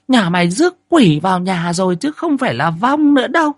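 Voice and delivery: put-on old woman scolding the couple for neglect; toothless old granny scolding. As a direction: chide them like a village grandmother. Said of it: "Bà cụ móm mém".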